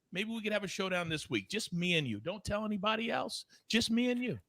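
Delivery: playful just-between-us near-whisper; mock conspiratorial hush. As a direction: share a pretend secret, softly. Mock secret challenge to chatter.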